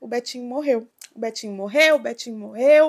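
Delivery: desperate speech broken by heavy sobbing. Retelling someone arriving in despair with bad news: imitating someone crying while talking. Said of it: "chorando muito e falando".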